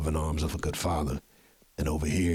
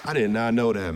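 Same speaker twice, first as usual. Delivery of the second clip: excited; 5 semitones higher, 4 dB louder than usual. Real, not acted. Host moved by guest's story.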